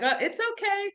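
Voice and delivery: light, very high-pitched reassurance; acted reassurance. Mom to son who just fell off, high-pitched reassurance. Acting unworried when son falls.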